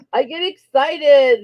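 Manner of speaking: slow, lightly voiced giant; Andre the Giant voice. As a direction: drawl it out like a big giant. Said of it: "that was my Andre the Giant voice".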